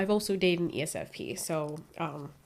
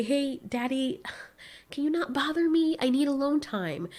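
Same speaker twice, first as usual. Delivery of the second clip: pleading with dad; 6 semitones higher than usual. Retold or imitated. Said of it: "You'll, you'll say".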